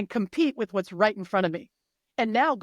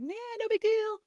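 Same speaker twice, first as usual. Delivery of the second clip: dismissive shrug; 10 semitones higher, 5 dB quieter than usual. Retold or imitated. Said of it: "Everybody's sitting back like".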